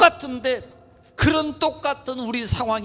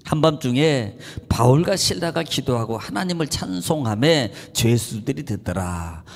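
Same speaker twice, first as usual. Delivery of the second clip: measured, lower Bible reading; scripture reading; 9 semitones lower than usual. Shown as a demonstration. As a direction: read the verse out with weight, slowing at the end. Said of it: "자, 이십오 절입니다".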